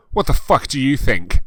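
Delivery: mock-angry teen snap; angry retort. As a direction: bite back at the question. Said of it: "I asked angrily".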